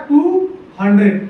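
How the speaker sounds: two separated words, dropping on hundred; word-by-word dictation. Shown as a demonstration. Teacher writing the answer for students, word-by-word dictation. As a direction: dictate it one word at a time.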